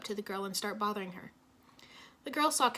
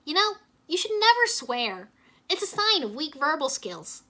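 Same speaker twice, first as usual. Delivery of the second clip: joking; 6 semitones higher, 7 dB louder than usual. A narrator's reading. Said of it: "Jay joked".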